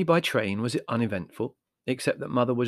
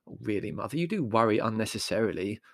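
exasperated. Acted. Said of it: "said Larry in exasperation".

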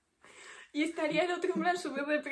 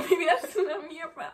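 mock sad boy; 2 semitones higher, 5 dB louder than usual. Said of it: "típica escena de Sad Boy".

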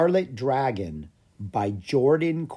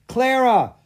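high, loud call to a friend; excited holler, pitch way up; 12 semitones higher, 7 dB louder than usual. A narrator's reading. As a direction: call the name across the stables. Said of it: "called Lucas".

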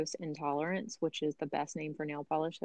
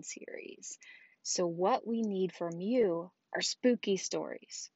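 announcing big news. Real, not acted. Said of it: "we have an announcement to make".

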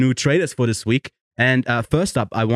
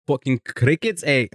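bad Australian accent; 4 semitones higher than usual. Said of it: "I cannot do an Australian accent".

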